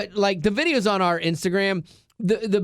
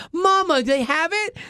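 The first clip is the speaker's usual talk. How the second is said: surprised question; 11 semitones higher than usual. Retold or imitated. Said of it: "She's like".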